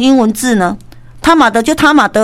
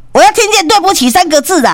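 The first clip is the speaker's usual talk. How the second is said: 1 demanding husband; 8 semitones higher than usual. Retold or imitated. Husband demanding apology, retold.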